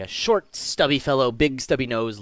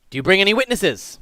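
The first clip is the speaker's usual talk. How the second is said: lightly voiced judge, raised pitch; judge questioning; 7 semitones higher, 5 dB louder than usual. Judge asking accused for witnesses, lightly official voice. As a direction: put a formal question from the bench.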